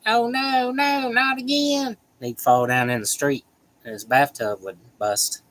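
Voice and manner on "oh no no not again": much higher, slow panicked cartoon wail; cartoon Cleveland voice. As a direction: squeal it like a cartoon man whose bathtub broke. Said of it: "and he's like".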